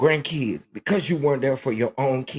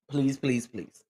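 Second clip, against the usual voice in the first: pleading; 5 dB quieter than usual. Real, not acted. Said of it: "Please go watch it".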